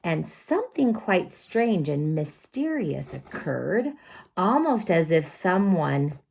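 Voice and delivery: lively picture-book reading; storytelling. A narrator's reading. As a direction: read to children with drama. Reads picture book aloud.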